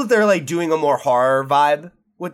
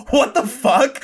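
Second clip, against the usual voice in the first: high-pitched, laughing mock disbelief; retold astonishment; 10 semitones higher, 3 dB louder, slower than usual. Fan recalling learning the actress was British, mock astonishment. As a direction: blurt it in exaggerated amazement.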